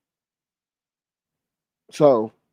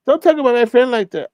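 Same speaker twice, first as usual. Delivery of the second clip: high, whiny kid voice mocking; ten-year-old voice; 7 semitones higher than usual. Mocking a grown streamer who sounds like a child, high kid whine. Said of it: "transform into a ten-year-old".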